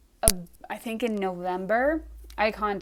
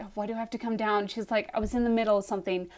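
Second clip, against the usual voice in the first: quick, softer imitation of a grumbling sister; annoyed sister; 5 dB quieter, faster than usual. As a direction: rattle off a mild complaint, put out. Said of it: "like, super annoyed".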